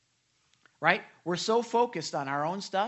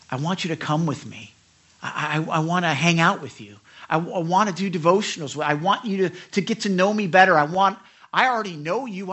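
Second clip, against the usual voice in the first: raised, earnest call to come closer; Jesus pleading at the door; 8 dB louder than usual. Acted. Jesus knocking at your heart, calling out loud and earnest. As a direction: plead loudly with the listener to come.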